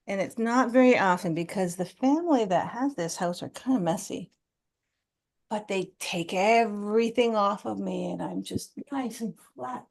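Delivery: lightly voiced dreamy tablecloth.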